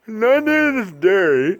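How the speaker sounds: slow squeaky character voice; a goofy puppet voice; Barry voice. Pretend. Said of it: "I'm Barry".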